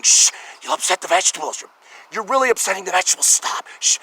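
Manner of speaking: lightly voiced fussy shopper, quick; a hint of a prissy shopper shushing. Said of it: "in Whole Foods they're all going".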